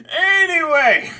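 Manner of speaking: high, slow, stretched-out sigh word; exasperated drawn-out anyway. Real, not acted.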